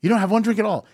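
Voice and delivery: put-on surprised girl. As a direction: mimic a woman who can't believe it. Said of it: "And this girl goes".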